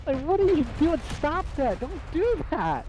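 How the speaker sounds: imitating himself scolding a friend for mocking the girl; retold scolding. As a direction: tell him off like a fed-up friend. Retells scolding his friend.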